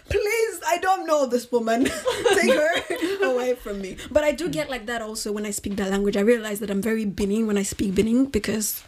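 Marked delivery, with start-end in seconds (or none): 0.1-4.0 higher mock plea broken by laughs; laughing plea. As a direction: beg to be rescued while giggling. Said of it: "And I'm like".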